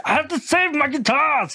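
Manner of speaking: high, slow, drawn-out wail; mock desperate cry. Acting out man rescuing his guitars.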